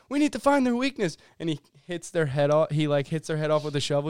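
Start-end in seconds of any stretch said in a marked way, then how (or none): 0.1-1.1 lightly acted alien. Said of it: "the one guy goes".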